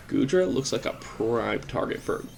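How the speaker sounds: speech caught by a burp; burping the words. Real, not acted. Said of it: "I'm burping all over the place".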